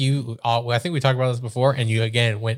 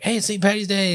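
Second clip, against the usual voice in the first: mock party cheer; 8 semitones higher than usual.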